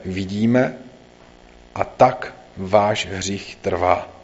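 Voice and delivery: measured, lightly voiced scripture reading; Bible reading. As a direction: read the Gospel passage steadily to the congregation. Reads the Gospel passage aloud. (čtení evangelia, klidně a zřetelně)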